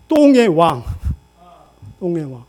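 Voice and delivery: laughing out the Korean phrase. Real, not acted. Preacher translating dung king into Korean, laughing. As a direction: let a laugh break into it.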